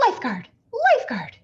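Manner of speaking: high, loud summons; indignant call for the lifeguard; crying out. A narrator's reading. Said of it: "she cried".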